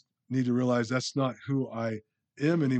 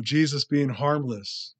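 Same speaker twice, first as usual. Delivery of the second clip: ordinary delivery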